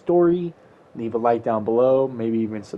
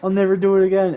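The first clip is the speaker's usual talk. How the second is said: higher, lightly imitated crying vow; mock tearful promise; 5 semitones higher, faster than usual. Kid driven towards the police station, mock tearful promise. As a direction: promise it as a crying kid would, half-hearted. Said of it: "And I'm, like, crying".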